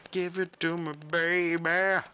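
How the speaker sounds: very high, playful croon. Pretend. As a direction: pitch it way up, teasingly. Playful sung line.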